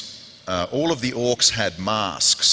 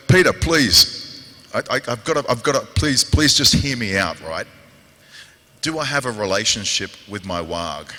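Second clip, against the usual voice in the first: mock pleading; 3 dB louder than usual. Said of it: "and I was like".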